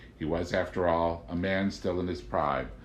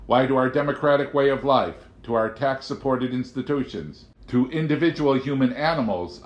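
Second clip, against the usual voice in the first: high, louder curious question; Amanda asking; 6 semitones higher, 6 dB louder than usual. A narrator's reading. Amanda questioning the agent, high and curious. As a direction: ask it with honest puzzlement.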